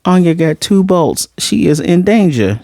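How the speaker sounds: put-on squeaky alarmed little girl; light imitation of panicking child; Anya voice. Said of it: "And she goes".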